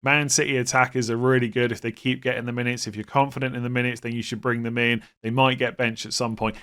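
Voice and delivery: flat, mechanical robotic delivery; robot voice, every word evenly spaced. Pretend. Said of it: "maybe in a super robotic voice".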